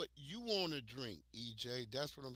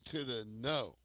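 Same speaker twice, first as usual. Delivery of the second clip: slow emphatic refusal; much slower than usual. Retold or imitated. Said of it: "I said".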